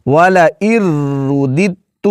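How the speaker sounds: والا ار رددت split into parts; teacher splitting والا ار رددت; slow demo. Shown as a demonstration. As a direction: say والا ار then رددت separately. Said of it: "اس کو پڑھیں گے والا ار رددت".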